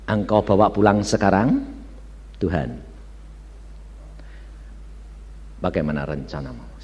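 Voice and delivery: low, soft prayerful questioning; subdued praying voice; retold question to God. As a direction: ask God quietly and humbly. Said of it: "apa yang saya tanya?".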